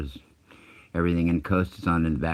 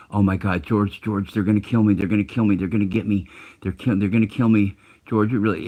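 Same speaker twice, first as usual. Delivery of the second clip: mock panic, higher and louder, words repeated in a rush of dread; panicked caller; 4 semitones higher, 4 dB louder than usual. Caller begging radio host for help as killers close in, panicked. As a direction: imitate a man freaking out on the phone. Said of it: "fucking crying and freaking out".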